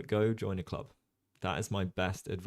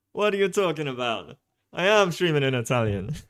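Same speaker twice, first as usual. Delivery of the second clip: mock indignant; 7 semitones higher, 8 dB louder than usual. Joking about streaming in Italian.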